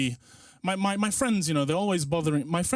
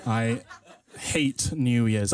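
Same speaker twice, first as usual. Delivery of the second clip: slow, laughing; 3 semitones lower, much slower than usual. Shown as a demonstration. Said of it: "and penultimate time".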